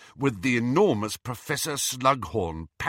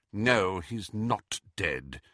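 bitterly; 4 semitones lower, 4 dB quieter, much slower than usual. Acted. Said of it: "said McGonagall bitterly".

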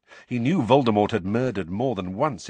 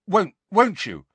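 uncertain; 12 semitones higher, 7 dB louder than usual. A narrator's reading. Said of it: "he added uncertainly".

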